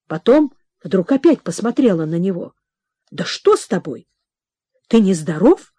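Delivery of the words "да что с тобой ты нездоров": anxious question. Acted. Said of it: "спросила она с беспокойством".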